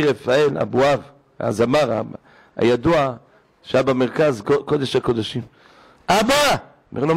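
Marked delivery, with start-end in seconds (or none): 6.1-6.6 alarmed. Retold or imitated. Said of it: "נבהל, מחליף צבעים".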